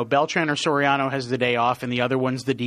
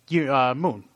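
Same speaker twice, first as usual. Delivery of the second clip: ordinary delivery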